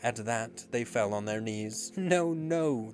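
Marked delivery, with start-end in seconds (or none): 1.9-2.9 high, loud, piteous plea; pleading wail, pitched up; piteous cry. A narrator's reading. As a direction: cry out for pity. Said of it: "they cried so piteously".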